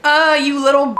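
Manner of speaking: loud, high exasperated cry at the book; blurting out in real irritation; real outburst. Real, not acted. Reader reacting to the book, loud, high real exasperation. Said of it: "Sorry, get yourself together".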